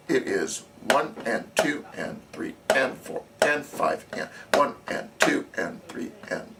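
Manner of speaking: steady counting aloud over the drumming; counting in time. Shown as a demonstration. Drum teacher counting the beat aloud for the student drumline. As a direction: count each beat evenly for the players.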